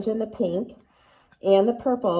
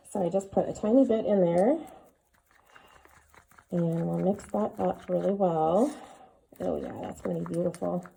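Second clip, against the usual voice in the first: muffled behind a respirator mask; through a respirator. Real, not acted. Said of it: "talk to you through the respirator".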